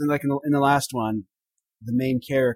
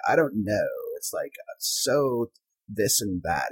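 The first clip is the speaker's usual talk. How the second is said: vocal fry; 4 semitones lower, 6 dB quieter, slower than usual. Shown as a demonstration. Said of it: "It's called vocal fry".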